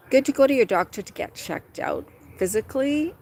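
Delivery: usual speaking voice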